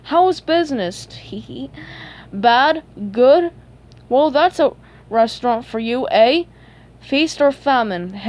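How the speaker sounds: loud, taunting jabs with chuckles; gloating. Acted. Plankton mocking Krabs' lost business, gloating. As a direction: rub it in, punching the questions.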